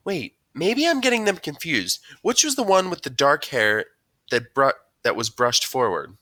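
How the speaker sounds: high, loud mom voice, working it out; puzzled mom. A narrator's reading. Mom asks son which boy was which, puzzled. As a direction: play a mom who has mixed up two boys.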